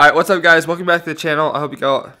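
talking around a cough drop; cough drop in mouth. Real, not acted. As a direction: speak with a lozenge in your mouth. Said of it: "I have a cough drop in my mouth".

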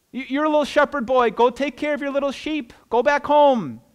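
high, mocking dismissal of a little brother; acted sneering put-down; belittling older brother. Eliab belittles David, paraphrased.

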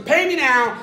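loud, curt order; angry demand. Acted. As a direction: snap it as a threat. Man grabs debtor by throat.

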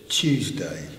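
Tuesday with a t close to ch; Tuesday, a loud chu start; English Tuesday demo. Shown as a demonstration. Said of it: "So this is t".

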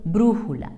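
brújula with the force on brú; antepenultimate stress. Shown as a demonstration. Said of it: "acento de intensidad en la antepenúltima sílaba".

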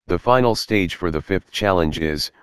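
text-to-speech robot voice. Real, not acted. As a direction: read it like synthetic speech software. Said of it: "my voice is a robotic voice that was sampled from a text-to-speech software".

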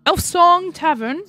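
high, questioning call; mock calling out. Player asking imaginary townsfolk for a tavern, calling out. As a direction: call the name out as if to passers-by. Calls out the name for directions.

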